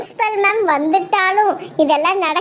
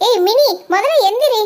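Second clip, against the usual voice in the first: amused teasing, giggling through it; laughing wake-up; 2 semitones higher than usual. Acted. Reni wakes Mini from her nightmare, laughing.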